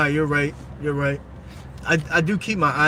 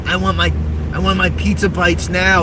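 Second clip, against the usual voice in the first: bratty demand; 3 semitones higher, 4 dB louder than usual. Retold or imitated. Repeated demand.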